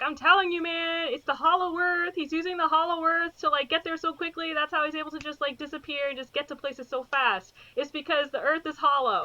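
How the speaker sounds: conspiracy nut. Retold or imitated. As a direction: sell the hollow earth theory. Voicing conspiracy-theory character.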